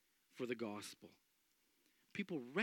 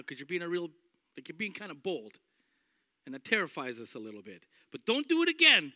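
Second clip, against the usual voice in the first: mock religious leader warning; 6 dB louder, faster than usual. Leaders threatening Peter and John, loud stern warning. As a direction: lay down the law like an official. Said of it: "And then I go".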